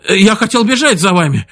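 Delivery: breathless, high and hurried; panting out the words; gasping for air. Acted. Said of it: "задыхаясь, проговорил сержант".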